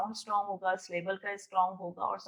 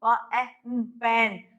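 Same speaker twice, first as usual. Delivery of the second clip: very slow, with p, e, n pulled apart before पेन; teacher showing a child's answer in the game; slow child's turn demo; much slower than usual. Shown as a demonstration. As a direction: act out the next child's turn, sounding out the word. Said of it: "next बच्चा जो है वो खुद बताएगा".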